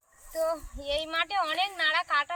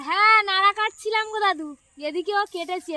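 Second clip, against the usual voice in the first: to someone hard of hearing; 4 semitones higher, 10 dB louder than usual. Real, not acted. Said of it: "ওই জন্য আমি জোরে জোরে বলছি".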